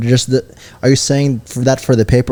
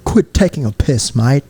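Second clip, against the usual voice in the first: Australian accent. Shown as a demonstration. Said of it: "Or was that Australian?".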